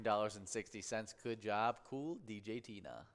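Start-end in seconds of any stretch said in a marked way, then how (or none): 1.8-3.1 smooth radio DJ sign-off; radio host voice. Acted. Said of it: "You said it like a, like a radio station host".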